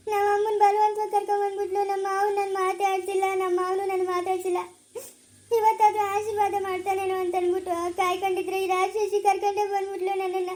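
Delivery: crying as she talks, drawn into a sing-song wail; tearful complaint. Acted. Daughter grieving that father-in-law never speaks to her, tearful. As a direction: lament through tears. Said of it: "ಯಾಕಮ್ಮ ಗೀತಾ ಅಳ್ತಾ ಇದೀಯಾ".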